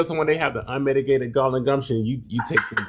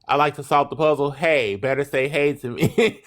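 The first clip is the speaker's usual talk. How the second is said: mock reading; 4 semitones higher than usual. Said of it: "so I'm just gonna say".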